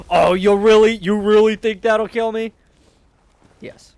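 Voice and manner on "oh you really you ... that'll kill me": mocking high echo. Mocking squeaky echo laughing.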